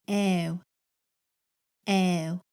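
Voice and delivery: "Ow" drawn out as one gliding vowel; Yurok vowel sound. Shown as a demonstration. Teacher models a sound for learners to practice, Yurok vowel demo. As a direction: model "Ow" alone, slowly and clearly. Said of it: "first sound we're gonna practice is the ow sound".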